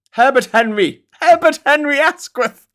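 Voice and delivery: put-on posh English accent. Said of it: "in any other accent except a posh one".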